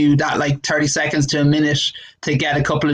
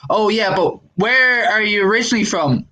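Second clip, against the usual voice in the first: put-on tag-worthy probing girl; 5 semitones higher than usual. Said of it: "I remember a girl asking me".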